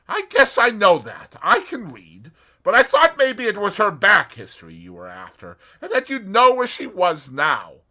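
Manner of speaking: put-on a light American accent, straight to business. A narrator's reading. Julius voiced.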